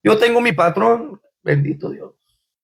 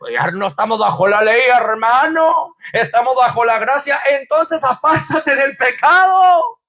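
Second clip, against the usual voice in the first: preaching; 3 semitones higher than usual. Acted. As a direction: exhort the brother to leave sin. Preaching exhortation. (exhortación de predicador)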